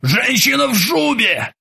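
high, slow, strained cry; a frightened man blurting it out; Krueger's panicked voice. A narrator's reading. Krueger answers the old sailor in a panicked cry.

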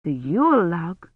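alarmed question, pitch swooping up. A narrator's reading. Kivrin questions the child about the Yule log, alarmed. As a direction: echo it back in understated alarm.

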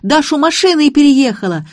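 high, loud panicked yell; bawling. A narrator's reading. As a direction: shout to passers-by in alarm. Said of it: "орал Гарик".

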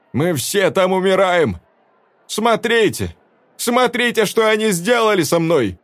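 woman showing her wounds to the crowd; anguished cry. A narrator's reading. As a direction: show them the horror. Velda shows her face.

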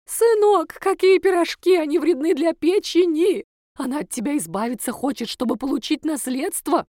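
high, loud shrieking warning; hammed-up alarmed mother. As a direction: shriek to save the son from the pies.

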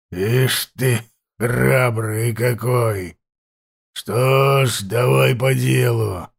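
slow, rasping chieftain voice; hoarse voice. Acted. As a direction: drag the words out hoarsely. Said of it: "продолжал хриплый голос".

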